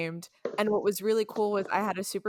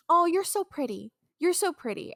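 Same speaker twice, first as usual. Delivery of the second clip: gushing customer; 8 semitones higher, 3 dB louder than usual. Retold or imitated.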